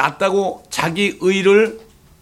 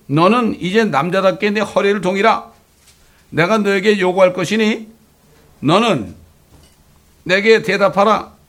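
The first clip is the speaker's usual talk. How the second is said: stern raised divine command, higher and louder; God commanding; 4 semitones higher, 4 dB louder than usual. Acted. God challenges Job to answer him, stern and raised. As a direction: demand an answer like God from the storm.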